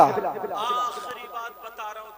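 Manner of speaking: booming announcement to the gathering; loud call. Real, not acted. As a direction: call it out over the crowd. Speaker calling out to crowd.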